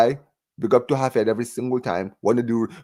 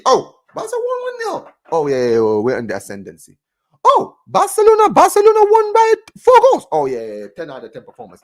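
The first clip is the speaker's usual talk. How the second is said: mocking casual fan; 2 semitones higher, 4 dB louder than usual. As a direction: parody the fans who only check scores. Mocking fans who only read scores.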